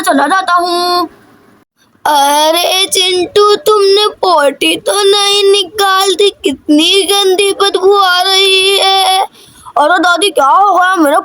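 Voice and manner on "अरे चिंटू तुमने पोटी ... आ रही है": slow, drawn-out grandmother's voice; slow old granny. Acted. Granny calling Chintu about the bad smell, slow and drawn out. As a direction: stretch each word like a fussing old granny.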